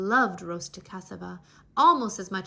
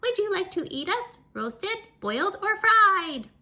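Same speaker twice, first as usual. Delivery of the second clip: eager offer; 10 semitones higher, 6 dB louder than usual. A narrator's reading. Cassava offering themselves.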